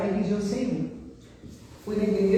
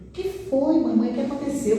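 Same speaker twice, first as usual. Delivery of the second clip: worried daughter; 6 semitones higher than usual. Retold or imitated. Daughter voiced in story.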